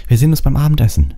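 called out. A narrator's reading. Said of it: "rief er Ron und Hermine zu".

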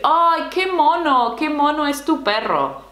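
high, gushing "¡Ay, qué mono!"; gushing over a dog. Pretend. Guest admiring a friend's cute dog, gushing. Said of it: "tú puedes decir".

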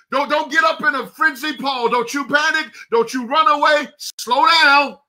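high, driving preacher's cadence, building fervour; hyped preaching. Real, not acted. Pastor fired up, urging Paul not to panic, hyped preaching. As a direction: preach it full force to the congregation. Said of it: "am I getting too hyped this morning?".

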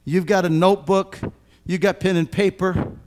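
loud, high, impassioned sermon voice; a pastor pleading with parents, full force; full-force preaching. Acted. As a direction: drive each point home to the parents.

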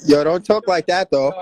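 loud, slow, low-pitched telling-off; firm objection. Real, not acted. Host cuts into a heated live argument, objecting loudly. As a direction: object loudly, drawing the words out.

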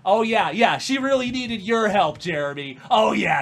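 loud mock agreement; sarcastic. Real, not acted. She mocks Jeremy's claim, loud sarcastic agreement. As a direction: drip with sarcasm at him.

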